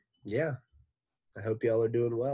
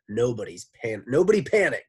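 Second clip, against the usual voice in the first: Miss Mush voice; 3 semitones higher, 9 dB louder, faster than usual. A narrator's reading. Miss Mush voice before redo.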